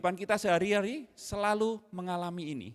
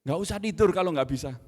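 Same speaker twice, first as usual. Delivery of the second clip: louder stress on tidur, scolding; harsh scolding; 6 dB louder, faster than usual. Retold or imitated. Father repeating his harsh rebuke to son, loud. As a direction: hammer the word tidur at the child. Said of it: "Dan berlebihan".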